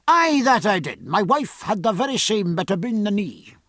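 Scots burr with rolled R's; broad Scottish accent. A narrator's reading. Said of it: "invaded by his native Scotch".

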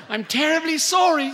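high, hollered British apology; overbearing British lady on the phone; thick British accent. A narrator's reading. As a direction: call it out high in a British woman's voice. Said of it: "said the voice".

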